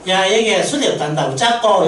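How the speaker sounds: Mary in broad Gyeongsang dialect, a light laugh in it; casual Gyeongsang-dialect mother to her son, lightly voiced. Preacher voicing Mary in Gyeongsang dialect to Jesus. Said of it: "순수한 경상도 말로 이야기하면".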